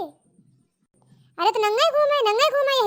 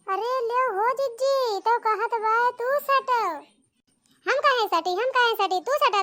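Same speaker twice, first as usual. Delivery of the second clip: outraged shouting; 3 semitones higher than usual. Acted. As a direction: shriek with village outrage. Aunt shouts in outraged quarrel.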